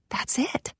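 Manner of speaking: very soft, voiceless whisper. A narrator's reading. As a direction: whisper the realisation to yourself. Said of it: "I whispered".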